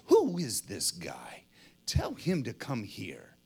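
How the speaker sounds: low, softened, amused warmth; smile in the voice. Acted. Jesus stops for the shouting beggar, smiling voice. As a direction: say it gently through a smile. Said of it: "with a smile in his voice".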